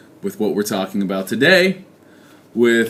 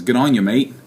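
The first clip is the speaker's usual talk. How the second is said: put-on Australian accent; 2 semitones higher than usual. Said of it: "my Australian accent is not getting any better".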